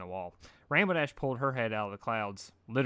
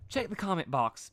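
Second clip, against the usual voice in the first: dread; 7 semitones higher than usual. Acted. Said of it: "said with dread".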